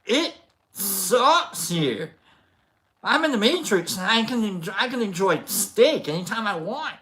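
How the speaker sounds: mock Cypher, building from whiny to a loud crying shout; Cypher rant. Retelling Cypher's Matrix complaint, imitating him building to a crying shout. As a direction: ham up a traitor's complaint until it breaks into a wail. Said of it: "He's like".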